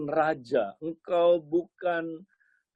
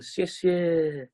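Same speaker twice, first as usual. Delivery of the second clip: polite thanks; 3 semitones higher than usual. Acted. Acted polite thanks of Jesus.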